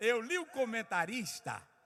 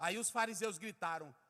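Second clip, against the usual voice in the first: ordinary talk, nothing marked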